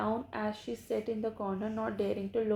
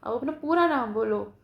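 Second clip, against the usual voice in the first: encouraging; 4 dB louder than usual. Retold or imitated. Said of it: "अब teacher ने तुरंत कहा कि".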